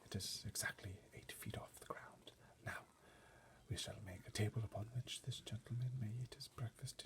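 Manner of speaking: hushed, breathy butler's orders; whisper. A narrator's reading. Butler quietly instructing footmen, whispering. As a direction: keep every word a hush. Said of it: "Mister Tibbs whispered".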